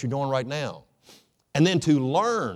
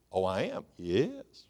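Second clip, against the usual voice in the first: hushed Adam; 5 semitones lower, 8 dB quieter, slower than usual. Acted. Adam answers God, hushed.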